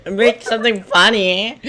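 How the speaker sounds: odd funny. Real, not acted. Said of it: "Why'd you say funny like that?".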